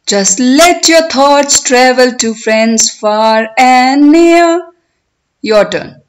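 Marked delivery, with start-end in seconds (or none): 0.1-4.7 poem recitation. Shown as a demonstration. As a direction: recite it for learners, stretching the words, lifting line endings. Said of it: "I will recite line by line".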